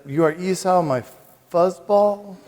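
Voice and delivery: mock misheard reading, laughing at the end; mishearing joke. Priest mishearing the reading, amused. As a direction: say fuzzball like a punchline. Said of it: "I thought".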